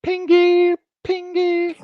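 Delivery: tiny squeaky falsetto; high squeaky call. Pretend. Playful squeaky call to someone.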